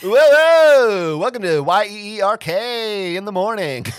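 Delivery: loud, high morning-show DJ hype; wacky radio DJ. Pretend. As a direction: shout it like a zany morning DJ. Mock wacky radio DJ intro.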